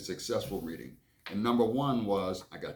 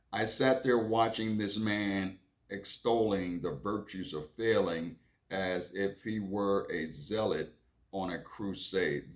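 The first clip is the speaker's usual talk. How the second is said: slow first reading. Shown as a demonstration. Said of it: "let me read that again".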